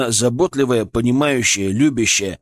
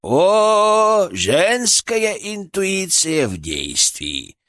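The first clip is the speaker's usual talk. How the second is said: sarcastic inner voice; 8 semitones higher, much slower than usual. Acted. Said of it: "зашептал".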